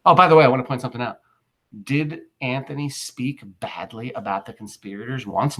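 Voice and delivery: a lightly voiced plebeian rushing in; fast mock plebeian. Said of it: "the first plebeian says".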